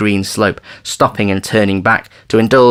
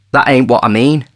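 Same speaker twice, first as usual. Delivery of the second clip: impetuous; 4 semitones higher, 5 dB louder than usual. Acted. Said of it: "said the other impetuously".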